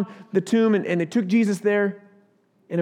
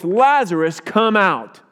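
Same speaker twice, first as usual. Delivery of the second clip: mildly raised commanding call; loud call; 6 dB louder, slower than usual. Acted. Preacher voicing Jesus calling Lazarus from the tomb, loud call. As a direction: call him out firmly, a restrained shout. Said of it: "called in a loud voice".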